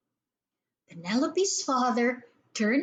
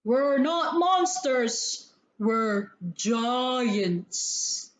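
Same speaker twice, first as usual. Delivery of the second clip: lightly voiced second giant, slow start; a hint of a big giant, a little slow; another large voice; much slower than usual. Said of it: "said another very large voice".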